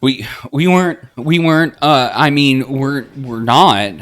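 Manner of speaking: high, loud stammering denial; flustered. Acted. Embarrassed girl stammers a denial to Linda. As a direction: trip over the words, mortified.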